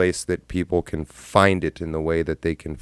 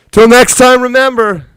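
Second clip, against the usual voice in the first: squeaky falsetto host; 15 dB louder than usual. Shown as a demonstration. Streamer rehearsing his outro in falsetto. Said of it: "outro in a new voice".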